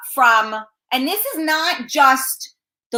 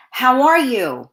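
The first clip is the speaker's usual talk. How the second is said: polite greeting; slower than usual. Shown as a demonstration.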